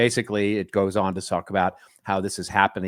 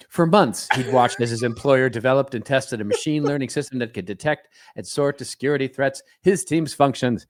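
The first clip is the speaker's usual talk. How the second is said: higher-pitched vintage radio announcer read; old-timey radio announcer; 3 semitones higher than usual. Acted. Co-host reading a layoff article aloud, as an old-timey announcer. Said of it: "I'm adopting an, uh, an accent for this".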